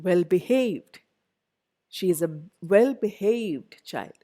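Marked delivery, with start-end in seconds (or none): 0.1-1.0 "well-behaved" stressed on HAVED; well-be-HAVED, weight at the end of "well-behaved"; stress on second part. Shown as a demonstration. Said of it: "second part". 2.7-3.8 "well-behaved" slowed, HAVED stressed; well-be-HAVED, weight late in "well-behaved"; stress on second part. Shown as a demonstration. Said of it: "second part".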